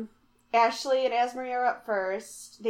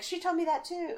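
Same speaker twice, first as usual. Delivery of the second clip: laughing quote; 8 semitones higher, 6 dB quieter than usual. Retold or imitated. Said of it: "And Sophie's like".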